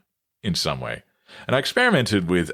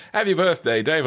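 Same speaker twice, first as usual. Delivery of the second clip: higher mock-cheery sibling voice; older brother's voice; 7 semitones higher than usual. Older brother greeting him on his birthday, higher imitated voice. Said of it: "And he said".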